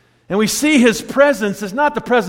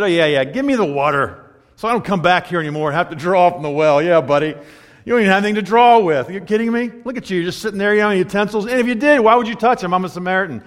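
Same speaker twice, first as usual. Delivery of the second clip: mock-sarcastic brush-off; acted sarcastic dismissal; faster than usual. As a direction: scoff as if humoring a crazy guy. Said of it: "She even sarcastically said".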